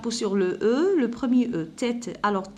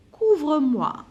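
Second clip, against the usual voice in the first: put-on sick child pleading; 4 semitones higher, 4 dB louder, slower than usual. Sick child calls to mother.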